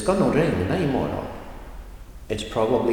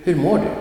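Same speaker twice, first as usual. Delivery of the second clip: mår lifted and louder, hur unstressed; example stress; 8 semitones higher, 6 dB louder, faster than usual. Shown as a demonstration. Teacher repeating the example for learners, stress on mår. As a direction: say hur mår du with a quick light hur, punch mår. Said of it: "no special emphasis".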